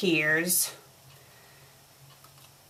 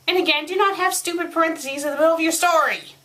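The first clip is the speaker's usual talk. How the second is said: fast, high-pitched scolding; exasperated; 7 semitones higher, much faster than usual. Real, not acted. Reader scolds the writer over parentheses, exasperated. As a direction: rattle off an irritated complaint.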